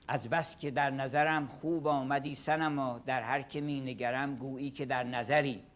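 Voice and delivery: a fast, rhythmic recital of Persian verse; Persian poem recitation. Shown as a demonstration. Lecturer reciting a Saadi poem to the class. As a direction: chant the couplets briskly in Persian. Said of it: "I can recite one example".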